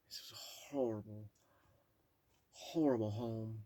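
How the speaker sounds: whispered disgust; hushed aside. Real, not acted. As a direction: breathe it out in horror.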